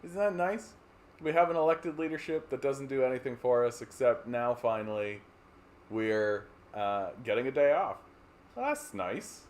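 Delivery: lightly pleased, rising sing-song; a hint of cheerful content citizen; mock pleased. Canadians pleased at a holiday, mild sing-song. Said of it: "everybody in Canada gets to go like".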